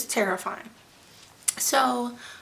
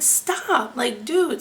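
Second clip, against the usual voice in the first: retold pained protest; 3 semitones higher, 4 dB louder, much slower than usual. Retold protest while being cut.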